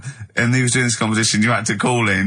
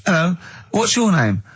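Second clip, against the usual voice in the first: neighbour character voice; 7 semitones higher than usual. Retold or imitated. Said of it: "didn't even do the Chinese accent".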